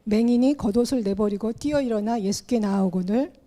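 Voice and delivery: measured, solemn Bible reading; scripture reading. Acted. Pastor reading Mark ten to the congregation, solemn reading. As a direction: read the passage out like a pastor at the pulpit. Reads scripture passage aloud.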